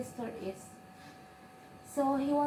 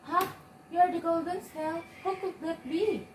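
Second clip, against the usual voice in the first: raised pitch, incredulous questions; amazed; 5 semitones higher than usual. Acted. Grandma learning the girl is the golden snail, amazed. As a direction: react with high-pitched disbelief.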